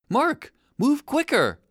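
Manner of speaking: high, slow, angry shout. A narrator's reading. Shark shoal shouting angrily at slow Mark. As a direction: yell at him to hurry up. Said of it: "shouted the shoal angrily".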